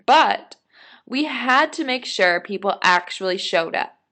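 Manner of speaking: put-on animated read-aloud of a kid's diary; story narration. A narrator's reading. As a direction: read it out clearly with lively emphasis.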